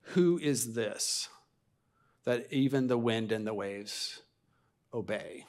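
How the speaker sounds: drawn out, each phrase left hanging in wonder; slow down and let the awe sink in; slow awed question. Acted. The disciples marvelling at Jesus, slow and awestruck. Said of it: "the story ends with the disciples saying".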